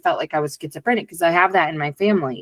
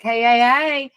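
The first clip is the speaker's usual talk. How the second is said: subconscious alarm voice; 5 semitones higher than usual. Retold or imitated. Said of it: "it was like".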